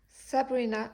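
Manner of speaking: sounding it out slowly in a French speaker's English accent; attempted English accent. Shown as a demonstration. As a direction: try the name with a clumsy English accent. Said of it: "désolée pour l'accent pourri".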